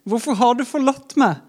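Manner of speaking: loud, high cry of abandonment. Acted. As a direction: cry it up to God from the cross. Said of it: "Der ropte han".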